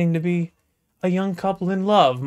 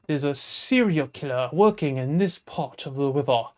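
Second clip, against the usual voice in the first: musing sergeant. Acted. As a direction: let the sergeant weigh each word. Sarge ponders the case.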